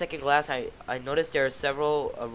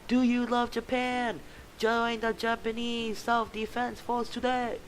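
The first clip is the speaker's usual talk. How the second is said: higher, slow booming soldier; a hint of a zealous soldier shouting; yelling recruiter; 9 semitones higher, slower than usual. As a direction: bellow the recruitment pitch. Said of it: "yelling at the top of his lungs".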